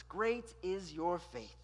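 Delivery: solemn praise. Acted. Repeated slowly.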